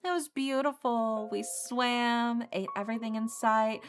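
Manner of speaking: gushing ex. Acted. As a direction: rub it in sweetly. Plays Rami gushing about trip.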